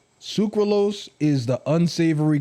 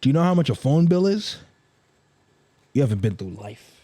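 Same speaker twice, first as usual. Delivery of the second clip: lecturing parent. Retold or imitated. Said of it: "all your parents say".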